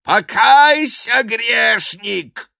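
high, loud, slow call to repent; a priest shouting at his victim to repent, high and loud; preaching shout. Acted. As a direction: thunder at the sinner from high up. Priest throttling, demands confession.

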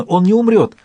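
high, hopeful cry; hopeful exclamation. A narrator's reading. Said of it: "воскликнула Этта обнадёженно". (высокий обнадёженный возглас)

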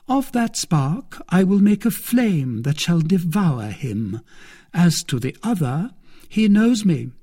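lightly voiced villainess plotting; scheming milady. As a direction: plot your victim's ruin with relish. Milady plots against Felton.

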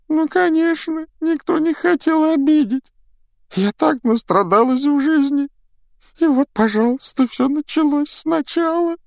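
high wailing ghost complaint; self-pitying ghost girl. Acted. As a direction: wallow in ghostly self-pity. Myrtle sulking self-pity.

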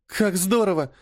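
light up with sudden delight. A narrator's reading. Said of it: "обрадовалась Полина". (радостно, восторженно)

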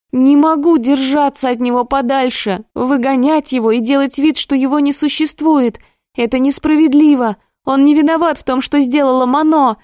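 high, rising, strained protest; tearful outburst. Acted. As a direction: plead near tears to the brother. Sister's tearful outburst continues.

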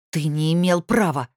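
свирепо, громче, удар на «права»; прорычать с яростью. Acted. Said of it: "свирепо прорычала я". (рычит в ярости, «права» громко)

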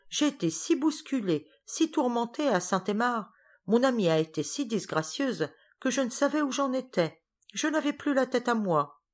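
high-pitched, flustered excuses; harried guest explaining her lapse; flustered apology. Acted. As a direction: pour out excuses, all in a fluster. Flustered apology for forgetting the child.

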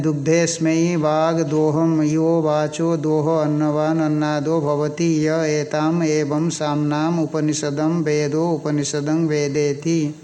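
slow, even scriptural recitation; Sanskrit scripture recitation. Acted. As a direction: recite the verse slowly, drawing out the syllables. (धीमा, एकसुर संस्कृत पाठ)

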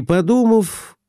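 usual speaking voice

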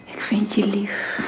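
tender whisper. Acted. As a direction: let it melt out slowly. Affectionate answer, whispered slowly. (langzaam en teder gefluisterd)

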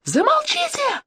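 very high shriek for silence; sudden scream. A narrator's reading. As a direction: scream to cut through everyone. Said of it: "заорала вдруг Оля".

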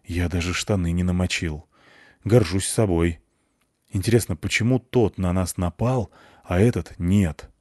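muffled voice through a helmet; muffled under helmet. Acted. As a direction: speak as if inside a sealed suit. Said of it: "голос Андрея из-под шлема доносился глухо". (глухо из-под шлема)

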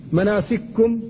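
مناسككم with the two kafs fused into one; kaf merged. Shown as a demonstration. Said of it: "إدغام الكاف". (مناسككم بإدغام الكاف في الكاف)

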